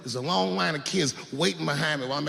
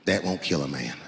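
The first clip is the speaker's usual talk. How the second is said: gun clerk impression; 13 semitones lower than usual. Clerk reassuring a customer, low clerk voice. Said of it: "he goes just like this".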